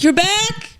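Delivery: high, rising question; mock disbelief at an unwelcome return; retold dismayed surprise. Greeting a friend who came home early, dismayed surprise.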